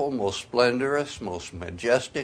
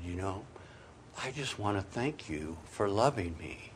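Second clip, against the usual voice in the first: quiet prayer; 10 dB quieter than usual. Retold or imitated. Retold quiet prayer on knees.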